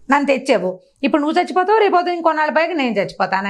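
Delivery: a sly daughter fakes tears to trick her demon mother; feigned tearful plea. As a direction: whine it up high like a girl faking sorrow.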